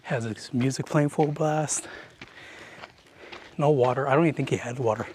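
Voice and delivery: talking out of breath; winded, breathing between words. Real, not acted. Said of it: "Sorry if I'm out of breath".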